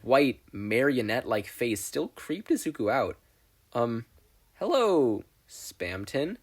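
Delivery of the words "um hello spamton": hesitant wary greeting; cautious. Acted. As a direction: greet the creepy stranger carefully. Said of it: "Izuku cautiously greeted".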